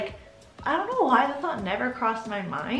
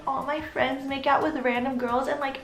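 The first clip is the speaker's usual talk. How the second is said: mildly hammed-up woe-is-me complaint; mock complaining; 4 semitones higher than usual. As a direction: imitate a self-pitying whine. Boyfriend's complaint mockingly retold.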